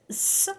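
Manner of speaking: S said as a short "suh" sound; hissed S sound. Shown as a demonstration. Teacher showing learners the letter C, S as a hissed sound. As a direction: say S as its sound, not its letter name. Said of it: "pronounced like the letter S".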